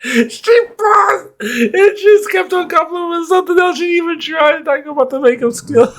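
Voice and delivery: very high, squeaky laughing voice; helpless laughter. Real, not acted. Helpless laughter while recounting.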